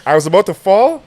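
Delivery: high, laughing through the words; cracking up while telling it. Real, not acted.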